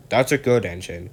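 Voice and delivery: gentle praise to a helpful engine; kindly. Acted. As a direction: pat him on the back with words. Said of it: "said the Fat Controller kindly".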